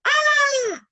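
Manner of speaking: a high bright ah; high ah as the child climbs the sofa. Shown as a demonstration. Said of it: "faz um som mais alto".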